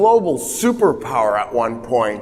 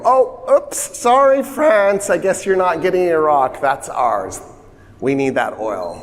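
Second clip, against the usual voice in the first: mock sheepish apology; 2 semitones higher than usual. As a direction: play the Brits faking an apology, then just grabbing the oil. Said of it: "So the Brits go".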